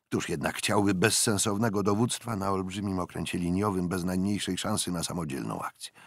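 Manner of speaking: ordinary delivery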